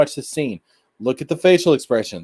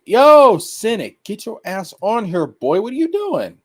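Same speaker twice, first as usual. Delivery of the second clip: high, loud yelled "Yo", then teasing call; calling out a friend; 9 semitones higher, 5 dB louder than usual. Retold or imitated. Streamer calling a friend onto the stream, high teasing holler. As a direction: holler at your buddy to hop on. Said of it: "I, I would say".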